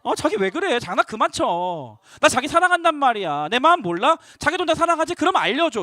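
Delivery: hammed-up girlfriend sulking for attention; cute whining. Delilah pouting at Samson for lying, whiny. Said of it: "두 번째 또 귀여운 들릴라가".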